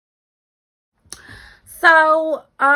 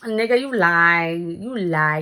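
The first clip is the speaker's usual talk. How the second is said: calling him a liar; 7 dB louder, slower than usual. Retold or imitated. Calling out the guy's lie.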